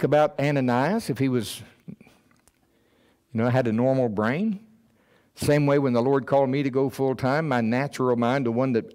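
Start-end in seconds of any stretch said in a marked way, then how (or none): none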